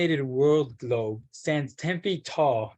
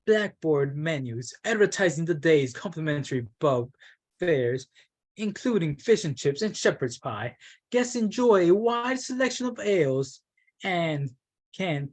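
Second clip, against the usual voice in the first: put-on British accent. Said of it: "I realized I was doing an accent".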